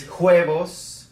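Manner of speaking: "huevos" said slowly as a learner's mistake; learner's mispronunciation. Shown as a demonstration. Teacher showing learners a mistake, "huevos" mispronounced slowly. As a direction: show "huevos" the mistaken way, drawn out. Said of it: "if you make these kind of mistakes".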